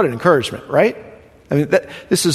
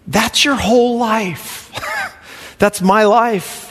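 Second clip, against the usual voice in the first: choked up; 5 semitones higher, slower than usual. Real, not acted. Preacher moved about tribulation.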